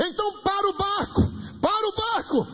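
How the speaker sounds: very high imitated plea; pleading cry. Dreamer begging God to stop the boat, pleading cry. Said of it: "ele começou a gritar".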